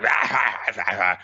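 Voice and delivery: mock feral "ah, ah"; imitated chomping. Acting out Gillen biting the demon lord, mock chomping noises.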